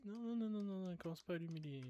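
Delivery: non répétés, forts et aigus; exclamation vive. Real, not acted. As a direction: protester fort contre le jeu. Réagit vivement au jeu. (protestation forte et aiguë)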